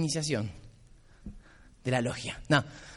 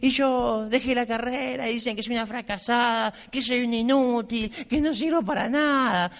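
imitating a crying girl; 4 semitones higher than usual. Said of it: "empezó a llorar".

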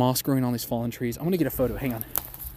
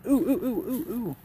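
excited; 10 semitones higher than usual. Real, not acted. Spots mushroom on tree.

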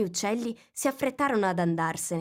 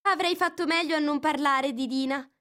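melancholy; 9 semitones higher, 4 dB louder than usual. A narrator's reading. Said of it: "si disse con tono malinconico".

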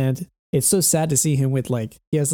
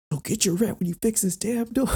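mock snapping Peter; 9 semitones higher than usual. Peter talking back to the landlord, mock snapping. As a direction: toss it back at the landlord jokingly. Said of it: "what if he just turns around".

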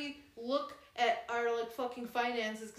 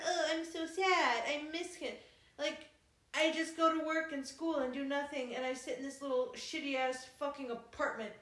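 mock whiny. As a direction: whine it like a sulky heroine. Mocking the heroine's whining.

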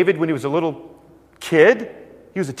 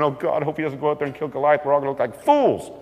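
a hint of fretting brothers, quick and mock-worried; faster than usual. Brothers fret about David, lightly voiced mock panic. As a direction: rattle it off like a nervous coward.

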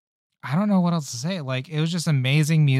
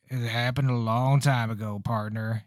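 put-on old-timey cowboy narrator; 2 semitones lower, 4 dB quieter than usual. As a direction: tell it like an old cowboy storyteller. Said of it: "Western cowboy voice".

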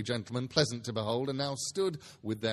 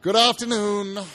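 loud, higher dismissive snap; curt dismissal; 7 semitones higher, 11 dB louder than usual. Acted. Scrooge dismissing his nephew, loud curt snap. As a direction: shut the conversation down hard.

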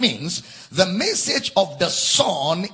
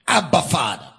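emphatic cry; 3 semitones lower, faster than usual. Shown as a demonstration. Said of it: "The cry is the overwhelming emphasis".

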